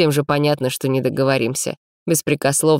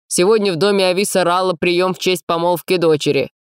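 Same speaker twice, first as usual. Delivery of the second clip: higher, louder, irritated official; displeased; 5 semitones higher, 4 dB louder than usual. A narrator's reading. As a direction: grudgingly announce it, annoyed. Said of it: "проговорил недовольный Мэйн".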